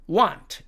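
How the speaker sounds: "want" with an open ah; American pronunciation. Shown as a demonstration. Teacher giving the second variant, American pronunciation. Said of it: "미국식 발음으로는".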